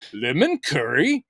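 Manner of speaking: slow, puzzled mock query; mock Monty Python cutaway. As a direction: draw out the baffled question. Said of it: "someone going".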